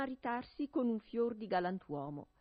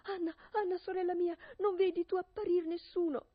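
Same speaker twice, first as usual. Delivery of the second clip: calling out; 11 semitones higher, 5 dB louder than usual. Acted. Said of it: "e tornava a gridare".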